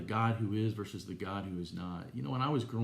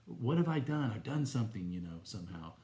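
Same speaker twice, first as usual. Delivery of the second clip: retold desperate plea; 2 semitones higher than usual. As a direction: relive the anguished prayer to God, partly pitched up. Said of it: "I was crying out and saying".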